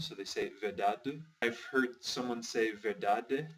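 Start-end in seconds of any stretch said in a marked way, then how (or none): 0.6-1.2 "verdade" ending in a dull "duh"; "verdade" as "ver-DAH-duh"; reduced final E. Shown as a demonstration. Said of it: "the E is kind of a E sound". 2.7-3.5 "verdade" ending in a clear "deh"; "verdade" as "ver-DAH-deh"; final E as eh. Shown as a demonstration. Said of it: "so it's an E instead".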